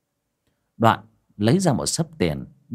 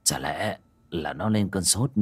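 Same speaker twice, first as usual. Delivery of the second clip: low, soft, slow hesitant murmur; hushed uncertain; 4 semitones lower, 5 dB quieter than usual. Acted. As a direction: speak low while listening for breath. Father listens close to son.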